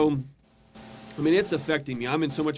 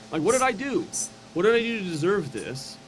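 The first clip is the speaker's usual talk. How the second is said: anguished plea; 6 semitones higher than usual. Retold or imitated. Retold anguished plea to God.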